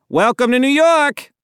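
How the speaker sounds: loud, high, hearty shout; jovial exclamation. A narrator's reading. Chuckling officer to worried Dad, jovial exclamation. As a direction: belt it out high like a showy welcome. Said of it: "Officer Wendell chuckled".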